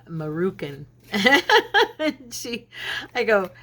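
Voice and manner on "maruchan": Marucan said with a hard K, ma-roo-CAN; mispronounced Marucan. Shown as a demonstration. To viewers, showing her lifelong wrong way: Marucan. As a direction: say it Marucan, K sound where the ch goes. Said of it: "I've always called them Marucan".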